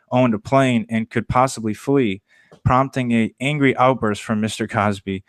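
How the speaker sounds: measured newscast delivery; news read. Acted. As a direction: read it out like a nightly news anchor. Reads the nightly news.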